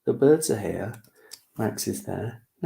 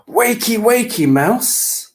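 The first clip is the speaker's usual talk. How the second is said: high louder wakey call; yelling; 12 semitones higher, 7 dB louder, slower than usual. Acted. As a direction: call out to wake him. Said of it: "yells Max".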